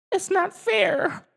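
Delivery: very high, slow sulky alien voice; grumbling Alf. Acted. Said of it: "grumbled Alf".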